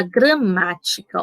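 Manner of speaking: "gramática" with the "má" held longer; stress on MÁ. Shown as a demonstration. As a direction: lean on "má" in "gramática". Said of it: "porque ela é mais forte".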